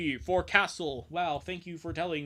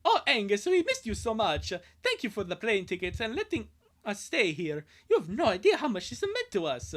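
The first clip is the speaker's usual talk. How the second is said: raised, with a laugh running through; grateful boy voice; 5 semitones higher, 4 dB louder than usual. Acted. Lincoln thanks Angus, raised and laughing. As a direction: thank him, half laughing.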